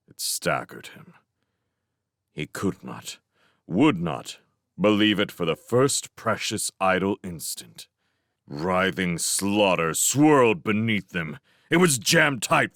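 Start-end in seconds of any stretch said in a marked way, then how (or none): none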